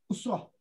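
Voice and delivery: Usrah said as "usroh" with a rounded o; the final "-roh" in Usrah, the right way; correct pronunciation again. Shown as a demonstration. Ustaz correcting himself for students, "Usrah" as "usroh". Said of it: "Usrah ni U S R O H".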